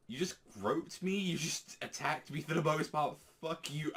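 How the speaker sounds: high-pitched mock indignation; indignant. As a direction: imitate an affronted girl telling off a creep. Girl angrily confronts the groper.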